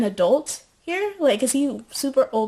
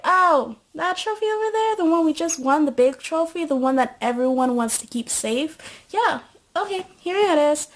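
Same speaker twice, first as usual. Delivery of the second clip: much higher, showy and eager; high eager bragging; 6 semitones higher than usual. Retold or imitated. Rosie bragging to the maid while handing over the trophy, high and eager. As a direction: overeager show-off handing it over.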